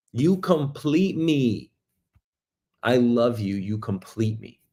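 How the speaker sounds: slow start, trailing into softness; tender love declaration. Shown as a demonstration. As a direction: draw it out tenderly, then ease down softly. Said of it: "You could say it like that".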